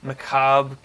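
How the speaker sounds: measured storytelling narration; game master's scene setting. Acted. Game master describes a creepy passageway to the players, measured narration. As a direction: describe the scene evenly, pausing between phrases.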